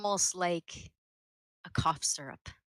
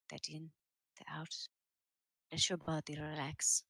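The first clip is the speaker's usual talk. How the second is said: soft, hushed guided breathing; soft spa whisper; 4 dB quieter than usual. Acted. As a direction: lull them into calm breathing. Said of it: "puts a hand on each of your foreheads and says".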